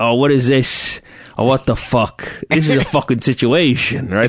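put-on New Jersey mobster accent. Showing how Italians around Montclair talk, in a Tony Soprano New Jersey accent. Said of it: "that Tony Soprano inflection".

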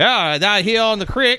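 put-on very high, loud, folksy old-timer voice. Giving crypto advice, the speaker slips into an old-time voice. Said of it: "now I'm starting to sound like old time".

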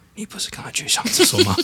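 very high, quiet, hushed whisper. Retelling how a father quietly asked about the bathroom: imitating a father whispering. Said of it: "很小声的跟我说".

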